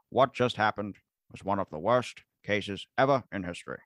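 statesmanlike speech in a put-on Boston accent; John F. Kennedy. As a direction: do a presidential address impression with Boston vowels. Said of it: "let me do it in my J F K voice".

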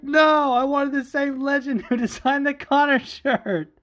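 high, loud mocking whine with a laugh; hammed-up high whiny voice; imitating him. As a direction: squeak it out like a petulant fan. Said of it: "And he was like".

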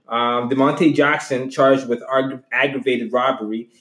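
slow, measured headline read; news reporter voice. Real, not acted. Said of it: "I sound like a fucking reporter".

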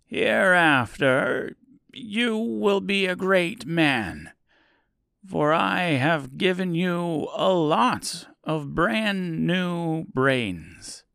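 a hint of a soothing wizard. Oz pronounces Scarecrow wise.

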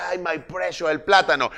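lightly voiced Gollum. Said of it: "De Frodo". (voz de Gollum)

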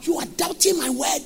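mild sung angel's proclamation; Gabriel's voice. Acted. Preacher voicing Gabriel rebuking Zachariah, sung. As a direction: lightly intone it like the angel Gabriel. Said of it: "look at the way he talked".

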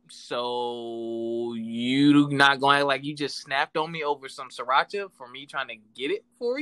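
slowed right down, spelling out the disbelief; slow incredulous challenge. Retold or imitated. Boyfriend confronting his girlfriend later, slow and incredulous. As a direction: lay it out slowly like you can't believe her. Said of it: "And I was like".

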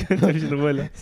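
laughing cute echo; cute anime streamer. Pretend. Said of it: "echoes the quote".

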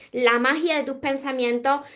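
ordinary talk, nothing marked

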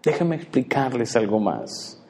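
soft sigh then gentle patient words; sighing tenderly. Acted. God answering childish prayers, softly sighing. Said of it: "el Señor suspira y dice".

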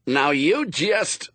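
loud, high, drawn-out start of a telling-off; exasperated officer; harassed order. A narrator's reading. Harassed lieutenant starts ordering children.

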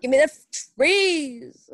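loud, slow playful demand for the trees; mock loud demand. Friend playing along with a loud mock demand. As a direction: belt it out like a kid wanting the trees back. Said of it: "Sorry, that was loud".

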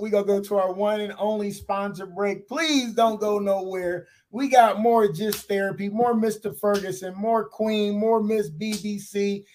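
smooth host sign-off to the break; radio host outro. Acted.

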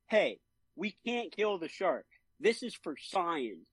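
lightly mocking, high-pitched preachy guy; a hint of sanctimonious protest; self-righteous leader. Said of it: "screw this self-righteous, like, leader guy".

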